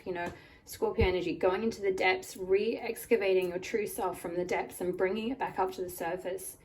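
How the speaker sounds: slightly croaky voice from a cold. Real, not acted. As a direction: speak through a croaky throat. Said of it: "apologies for my croaky voice".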